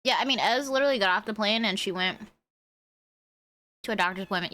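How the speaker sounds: talking while munching chips; crunching chips. Real, not acted. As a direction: crunch chips between words. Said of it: "You heard the crunch".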